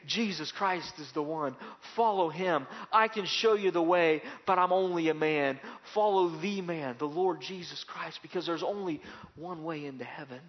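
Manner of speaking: loud, earnest altar-call voice; mock preacher's plea. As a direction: proclaim it like a TV preacher. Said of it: "get behind a T V and say".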